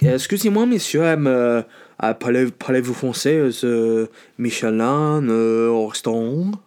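halting, hammed-up French accent; French waiter. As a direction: stumble through it as a comedy French waiter. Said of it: "you fucking French bastard".

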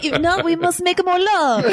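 playful put-on French accent; hammy French lover accent. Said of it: "My French accent is very similar".

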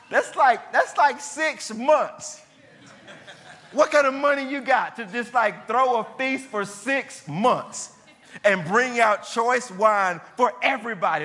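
stretched-out incredulous wonder; amazed disbelief. Real, not acted. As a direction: marvel at it, half laughing. Preacher marvels at six-month feast.

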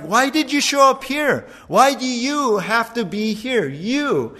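hammed-up demon shriek. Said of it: "So he's like".

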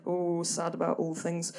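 a touch of pretend melodrama; mock tragic sadness. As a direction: play it as theatrical mock despair. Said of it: "I should come up here and say".

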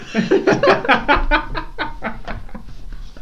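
silent high wheezing laugh; breathless laughter; wheezy laugh. Real, not acted. Laughing at the story.

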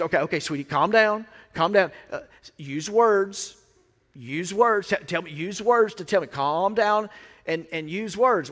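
measured coaxing, drawing out the key words; coaxing parent. Acted. Parent calming a crying child, lightly acted coaxing. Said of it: "the parent typically goes".

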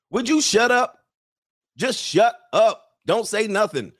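high-pitched pleading to shut up; comic exasperated outburst. Acted. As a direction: beg her to stop talking, fed up. Exasperated order to the talkative woman.

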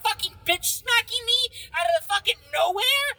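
arguing with a friend who calls the slapper a real man, heated. Real, not acted. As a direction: fire it back at your friend. Heated argument about rough sex.

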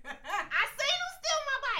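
high, slow, grand speech-giver; slow mock-political pronouncement, pitched high; politician voice. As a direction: announce it like a politician at a podium. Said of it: "Why he sound like a politician?".

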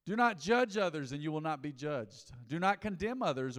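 "not" punched each time; preacher leaning on "not"; stress on not. Acted. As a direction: hit "not" in every phrase. Preaching scripture.

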